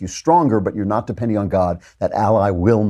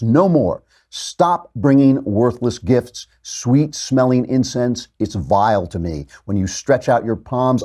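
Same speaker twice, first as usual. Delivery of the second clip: scripture reading; 2 semitones higher than usual. Acted. God telling people through Isaiah, measured declamatory reading. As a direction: read it out as God admonishing his people. Reads God's words from translation.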